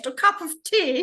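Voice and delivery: high, loud, playfully exaggerated English accent. Shown as a demonstration. Guest mocking her own Englishness, hammed-up English accent. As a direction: make the English accent a show. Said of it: "how English".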